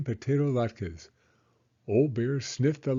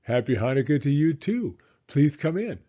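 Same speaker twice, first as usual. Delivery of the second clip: put-on higher, bright old grandmother voice; Baba Brena; 4 semitones higher, 5 dB louder than usual. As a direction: play the kindly old hostess, pitched up. Baba Brena greeting the visitor.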